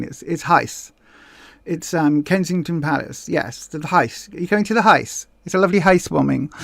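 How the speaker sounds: put-on royal-set Received English, "Heis" for house; old-money Received English. Shown as a demonstration. Royal guest asking about a housewarming, mock Received English. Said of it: "you've got to say heis".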